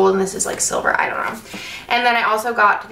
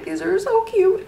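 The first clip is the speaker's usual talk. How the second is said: excited gush; 10 semitones higher than usual. Retold or imitated. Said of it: "because I was like".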